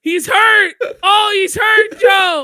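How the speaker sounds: high, loud hammed-up wail; mock wailing. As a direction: cry out in fake anguish. Mock grief over Joe's reaction.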